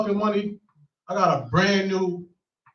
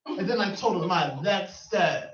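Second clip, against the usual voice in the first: mock yelling; 3 semitones higher than usual. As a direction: imitate a woman yelling tearful-rant taunts. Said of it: "she's, like, still yelling at her".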